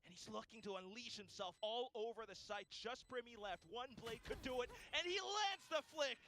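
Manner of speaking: high, loud hype call; esports caster. Real, not acted. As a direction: call the clutch with rising excitement. Live hype play-by-play.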